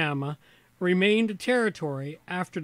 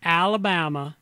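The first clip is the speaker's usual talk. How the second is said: Southern accent clicking into place; 3 dB louder than usual. Shown as a demonstration. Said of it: "There's the southern accent".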